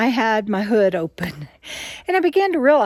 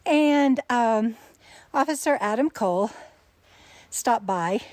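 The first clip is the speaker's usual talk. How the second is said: breathless after the uphill hike; talking while catching breath. Real, not acted. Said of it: "I'm out of breath".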